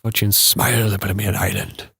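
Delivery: amateur copy of Irish; imitated Irish oy in 'smiled'; attempted Irish accent. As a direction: copy the Irish teacher's sentence. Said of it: "it's not bad".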